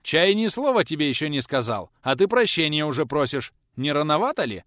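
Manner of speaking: mock him for begging too early; a touch of gruff sarcasm; mocking scold. Teacher mocks the frightened boy.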